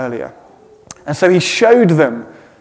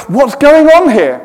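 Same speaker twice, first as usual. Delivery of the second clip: confused; 9 semitones higher, 5 dB louder than usual. Retold or imitated. Confused friends quoted.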